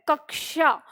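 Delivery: कक्षा with a clear क followed by श; correct pronunciation. Shown as a demonstration. Teacher showing students the proper reading, careful correct कक्षा. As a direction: sound out कक्षा as "kak-sha". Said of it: "हम इसको कक्षा पढ़ते हैं".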